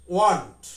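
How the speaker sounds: want said the English way, short and clipped at the end; want, English style. Shown as a demonstration. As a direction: say want as a foreigner would. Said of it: "want যখন উচ্চারণটা করলো".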